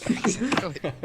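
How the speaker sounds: high, drawn-out word through laughter; laughed out, slow and high; laughing agreement. Real, not acted. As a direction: agree while cracking up. Laughing at the imagined bug.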